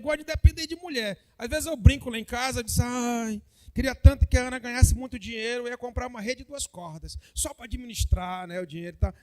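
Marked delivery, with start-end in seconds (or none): 2.8-9.1 joking lazy husband. Retold or imitated. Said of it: "Eu falo isso brincando".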